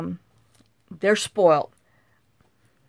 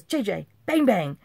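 mock gunshot command; 3 semitones higher than usual. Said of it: "She says".

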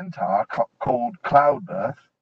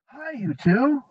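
shouting; 11 semitones higher, slower than usual. A narrator's reading. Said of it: "shouted Jill in a loud voice".

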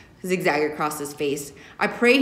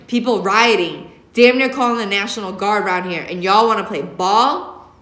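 scolding; 5 dB louder than usual. Acted. Father scolding in truck.

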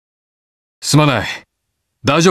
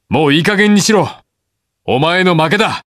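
raised, exasperated demand; angry confrontation; 4 semitones higher than usual. Acted. Hero confronting Kiba in a fight, angry. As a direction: order a rival to give up.

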